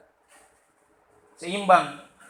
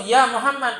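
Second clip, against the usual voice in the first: calling out loud and a bit higher; 5 semitones higher, 8 dB louder than usual. Retold or imitated. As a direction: shout the name across the crowd like a villager. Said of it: "memanggil Nabi dengan suaranya yang lantang dan keras". (panggilan lantang dan keras)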